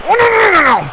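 high alarmed oh-no cry; panicked oh no. Real, not acted. Panic as move lands.

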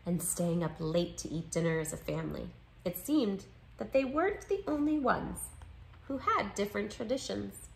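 measured picture-book read-aloud; story narration. A narrator's reading. Narrator reading a children's book about two friends, story narration. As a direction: read it clearly to young listeners.

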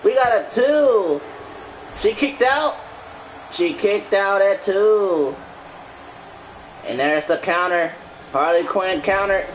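lively ringside play-by-play; wrestling commentator. Acted. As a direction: call the match like a wrestling announcer. Streamer calls the match.

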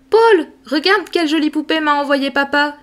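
put-on girl showing her cousin the doll; excited cry. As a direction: show off the doll with delight. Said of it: "s'écria Sophie".

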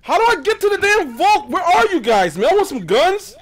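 high, whiny demand to teammates; worked-up, high plea for directions; agitated calling out. Real, not acted. Lost in game, calling to teammates.

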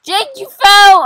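loud, high cry of surprise; startled exclamation. Real, not acted. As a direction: exclaim loudly as a friend falls. Friend falls off the ride.

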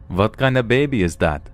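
put-on a mild Russian accent, stressing kind; a stranger asking in a put-on Russian accent; heavy Russian accent. Stranger on the bench questions the dad, mild Russian accent. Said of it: "she inquires in a heavy Russian accent".

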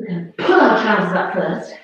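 chuckling through the words; amused at herself mid-instruction; laughing at a wardrobe fix; laughing aside. Real, not acted. Jokes while pulling up trousers.

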